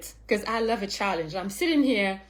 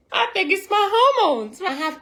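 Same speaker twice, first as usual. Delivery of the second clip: mock whiny patient; 10 semitones higher, 7 dB louder than usual. Patient quoted blaming her hormones.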